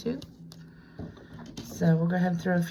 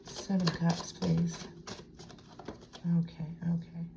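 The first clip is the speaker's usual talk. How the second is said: soft unvoiced whisper; 8 dB quieter than usual. Real, not acted. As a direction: breathe the okays quietly. Whispering to herself over cards.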